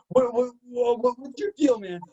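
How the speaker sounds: high-pitched mock indignation; stammered, high, imitated exasperation; indignant confrontation. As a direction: retell a coworker demanding an explanation. Retelling coworker's confrontation.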